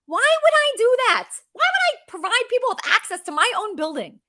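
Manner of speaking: high, disbelieving question; can you believe this; incredulous. Real, not acted.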